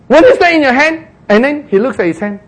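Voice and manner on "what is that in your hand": high, raised, insistent question; lifted, emphatic divine query; pointed questioning. Acted. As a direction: ask it as an obvious prompt. The Lord asks Moses pointedly.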